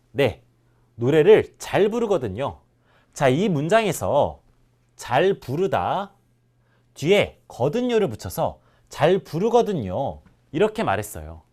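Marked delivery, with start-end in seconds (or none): 5.0-6.1 slowed-down word. Shown as a demonstration. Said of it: "teacher isolating a verb form".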